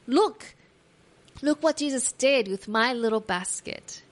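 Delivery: put-on thrilled boy showing off his news; excited child reporting. Boy excitedly telling his family.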